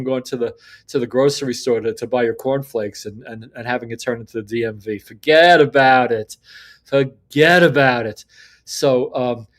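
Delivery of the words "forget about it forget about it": louder and slow, a New York style brush-off; emphatic dismissal. Real, not acted. Vlogger scoffing at government grocery stores, loud and slow. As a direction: slam the idea down twice, slowly.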